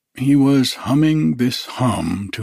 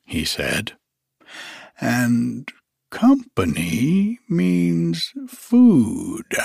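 Pooh voice; 3 semitones higher, slower than usual. Acted. Pooh figures out the rabbit hole, pleased bear voice. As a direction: reason it out brightly, rising to company.

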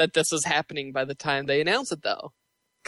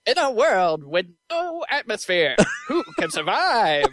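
trailer voice; 6 semitones higher than usual. Pretend. Parody movie trailer narration.

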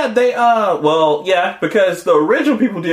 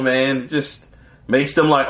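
ordinary talk

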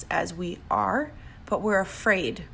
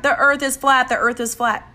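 hammed-up frantic chant, louder; mock freaking out; 4 semitones higher, 5 dB louder than usual. A man with a sign ranting at passersby, mock frantic. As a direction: mimic a street ranter losing it. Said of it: "they're freaking out".

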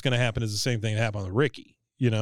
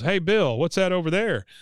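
Hank teasing; 5 semitones higher than usual. Retold or imitated. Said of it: "he goes".

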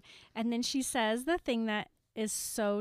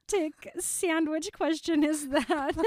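loud, higher disbelieving question; incredulous; 8 semitones higher, 9 dB louder than usual. Real, not acted. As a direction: burst out in disbelief. Incredulous laughing outburst.

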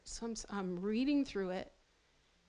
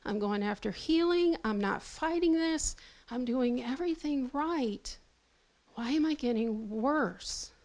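retold pleading prayer; 3 dB louder than usual. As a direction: pour out your frustration to the Lord.

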